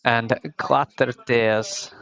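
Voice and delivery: slow, hammed-up French accent on the name; mock French accent. Shown as a demonstration. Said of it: "That's my attempt at a French accent".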